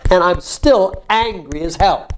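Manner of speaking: slow, emphatic anger; coaching someone to voice their anger; demonstrated anger. Shown as a demonstration. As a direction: lean on ANGRY and HELL. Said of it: "A little more".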